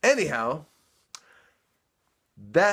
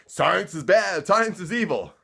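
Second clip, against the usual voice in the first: mock preacher; 3 semitones higher, 5 dB louder than usual. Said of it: "because their churches say".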